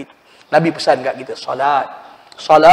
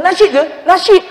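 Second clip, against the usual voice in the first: surprised; 13 semitones higher, 4 dB louder than usual. Retold or imitated. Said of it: "bapak dia kata".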